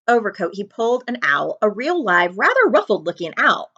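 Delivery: usual speaking voice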